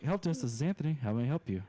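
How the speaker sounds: neutral professional help desk greeting; businesslike, accent-free customer service; phone voice. Shown as a demonstration. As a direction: answer the phone in a polished work voice. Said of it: "my normal on the phone voice".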